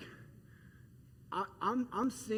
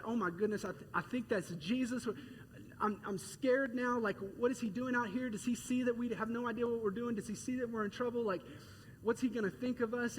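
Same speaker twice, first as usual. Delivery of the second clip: scared disciple; 5 semitones higher than usual. Retold or imitated. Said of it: "here's what the disciples could have done".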